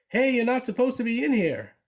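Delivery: a lunch lady's high scolding yell. A narrator's reading. Lunch lady yelling at the dog in her cafeteria, high scolding shout. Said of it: "one of the lunch ladies yelled".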